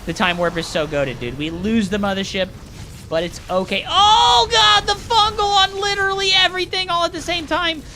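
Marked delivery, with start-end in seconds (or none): 3.9-7.8 high, loud, frantic wailing rant; over-the-top panicked caster meltdown; mock hysteria. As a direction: cry out in hammed-up disbelief, pitch way up. Mock hysterical outburst while casting.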